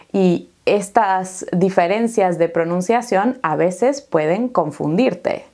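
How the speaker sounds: ordinary talk, nothing marked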